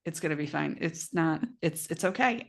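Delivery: soft, calm reassurance imitating her husband; lightly voiced husband, gently soothing; reassuring husband. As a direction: quietly say it will all be fine. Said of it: "he's just like".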